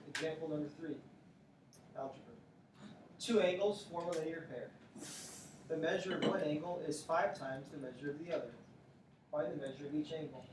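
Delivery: lightly done teacher read-aloud voice. Shown as a demonstration. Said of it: "Let me read this to you in my teacher voice".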